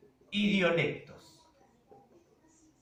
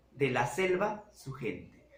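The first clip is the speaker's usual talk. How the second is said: Amazonian word order; 8 semitones lower, 6 dB quieter than usual. Shown as a demonstration. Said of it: "¿Se dan cuenta ustedes cómo varía?".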